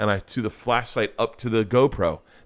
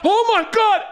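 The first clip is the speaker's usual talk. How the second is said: high, loud, thrilled shriek; squealing kids; 4 dB louder than usual. Retold or imitated. Daughters spotting an elf, shrieking with delight. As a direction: shriek it like kids seeing magic. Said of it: "the girls were like".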